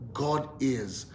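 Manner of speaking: soft, low spoken declaration; softly leading people in a declaration; confession. Shown as a demonstration. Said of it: "Say it with me".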